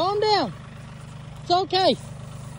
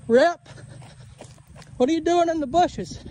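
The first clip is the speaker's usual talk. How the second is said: calling out. Real, not acted. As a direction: call the cow's name to get its attention. Calling the cow from afar.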